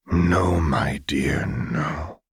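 gentle, half-whispered reassurance; soft. A narrator's reading. Silco comforting Powder, soft and gentle. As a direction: hush her tenderly. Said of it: "he said softly".

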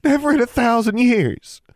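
put-on very high, loud, overwrought girl; weeping gratitude. A narrator's reading. Twin thanking her sister's rescuer, weeping. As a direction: pour out thanks through acted tears. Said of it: "Forbearance was weeping".

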